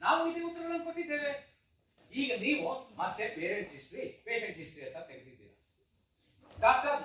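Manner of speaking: irritated complaint with sudden loud peaks; fed-up protest, flaring up in places; exasperated. Acted. Father fed up with repeated questions, exasperated. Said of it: "ನನ್ನ ಕೋಪ ಬೇಸರದಲ್ಲಿ".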